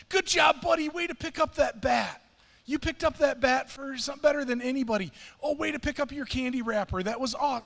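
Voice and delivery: loud, high cheering yell from the stands; screaming at the game. Retold or imitated. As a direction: cheer your son on at full volume, over the top. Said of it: "like, screaming".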